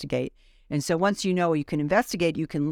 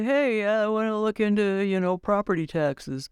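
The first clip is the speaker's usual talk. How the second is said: lightly hammed-up juror, a bit higher in pitch; mock juror voice; 3 semitones higher than usual. Juror telling the room what to investigate, playfully mimicked. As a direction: put on a voice to imitate a juror. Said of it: "Do they say it just like that?".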